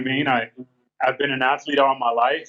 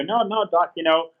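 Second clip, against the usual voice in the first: higher-pitched, mildly insistent reassurance; retold protest; 5 semitones higher than usual. Patient tells his doctor he'll be fine, retold higher-pitched protest. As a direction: retell brushing off a worry, pitched up.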